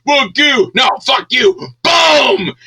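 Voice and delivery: high, loud mock yell ending in a blast; getting revenge on the guy at the Coke machine, shouting; vengeful shout. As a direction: throw it back at him with a bang. Acting out the revenge fantasy.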